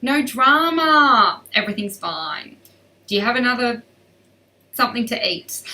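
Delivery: a hint of a relaxed Australian horse; lightly voiced easygoing horse, no worries; laid-back Aussie horse. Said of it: "they're pretty Australian".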